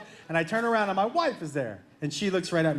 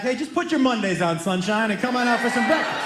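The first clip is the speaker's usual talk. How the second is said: yelled back; 3 dB louder than usual. Retold or imitated. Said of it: "I just yelled back".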